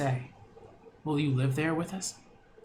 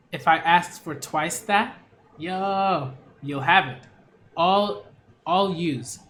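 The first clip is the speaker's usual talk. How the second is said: bold bargaining; 5 dB louder, slower than usual. Acted. Bold haggling offer, louder.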